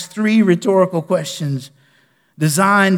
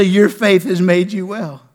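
gentler Jesus quote; 4 semitones higher, 6 dB louder, slower than usual. Acted. Pastor repeating Jesus' words to the church, slow and gentle. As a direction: let it land tenderly, slowly. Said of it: "Jesus will say".

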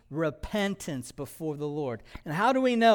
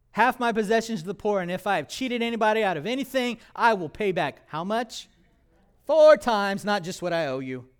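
eager giving; 3 semitones higher, 3 dB louder, faster than usual. Acted. Voicing Zacchaeus eagerly.

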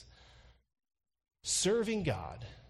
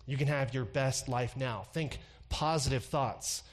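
breathy televangelist voice; lightly breathy soothing preacher; Joel Osteen breathy voice; 2 semitones lower than usual. Retold or imitated. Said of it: "I start to talk in a real breathy voice when I think about imitating Joel Osteen".

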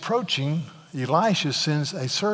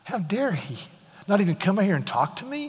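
a seething, whispered fury; a soldier's wounded pride, whispered; angry whisper. Retold or imitated. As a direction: hiss out the outrage under the breath. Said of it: "Naaman was filled with anger".

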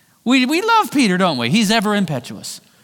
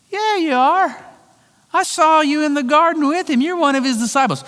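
higher, pressing accusation; insistent accuser; 8 semitones higher than usual. Retold or imitated. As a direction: catch him out, higher and insistent. Accuser insists against Peter.

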